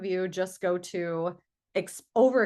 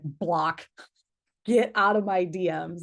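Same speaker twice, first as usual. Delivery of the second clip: firm rejection; 6 dB louder, slower than usual. Acted. Imagined rejection of pushy seller.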